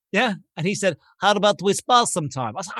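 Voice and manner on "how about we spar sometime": lightly imitated Russian accent. Big guy challenges a stranger to spar, Russian accent. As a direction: offer it in a mild Russian accent. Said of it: "You can tell from the accent he's Russian".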